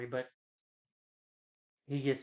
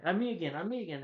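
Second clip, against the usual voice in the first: higher, swooping imitation of joy; mock overjoyed cry; 6 semitones higher than usual. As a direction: exclaim it in playful amazement. Mimics Ben overjoyed at change.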